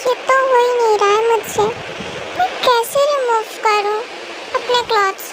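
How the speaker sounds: put-on childish girl voice. Cookie worrying alone that daddy will scold her, childlike fretting. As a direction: fret like a small child stuck with her shirt.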